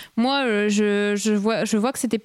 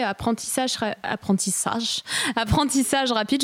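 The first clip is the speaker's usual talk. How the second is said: German accent. Real, not acted. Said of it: "je prends un accent allemand pour dire apprentissage".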